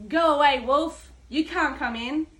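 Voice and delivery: loud burst on go away then settling; a mock yell from behind the door; yelled back. Second pig shouting the wolf away from his door, mock yell. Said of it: "He yelled back".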